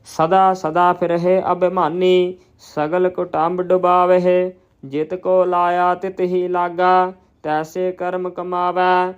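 slow, measured chant-like reading on a level tone; scripture recitation. Shown as a demonstration. Teacher reciting Gurbani for learners, slow measured recitation. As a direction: recite each phrase deliberately, drawing out the vowels.

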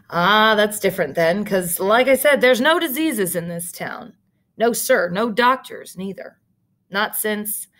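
the clerk rattles on to the stranger; lightly voiced talkative country clerk; chatty clerk. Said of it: "the clerk said".

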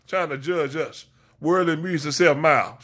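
rhythmic Sunday sermon cadence; preaching. Real, not acted. Preacher calling out his congregation, in full sermon rhythm. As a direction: preach it like a pulpit call-and-response.

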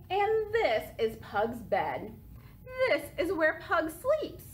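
lively picture-book read-aloud; reading to children. A narrator's reading. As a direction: read it to little kids, with bounce.

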